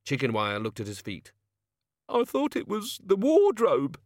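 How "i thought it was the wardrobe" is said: muttered. A narrator's reading. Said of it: "he muttered".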